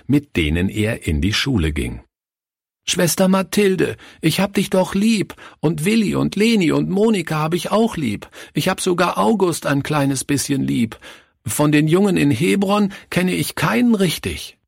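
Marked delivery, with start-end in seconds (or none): 2.9-14.6 put-on pleading child. Boy pleading with Sister Mathilde.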